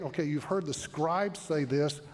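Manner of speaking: breezy imitation of just another teacher; lightly mocking, take-it-or-leave-it; mock casual pitch. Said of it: "he's not just saying".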